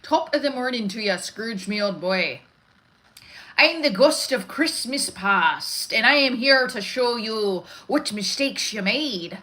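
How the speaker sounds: lilting, hammed-up Irish leprechaun; Irish accent. Shown as a demonstration. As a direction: declaim it in a comic stage Irish accent. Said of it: "that was my Irish".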